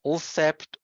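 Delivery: "ulcept" starting on l before the s; impossible initial cluster. Shown as a demonstration. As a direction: begin "ulcept" with a syllable-like l, then sept. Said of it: "we can't say".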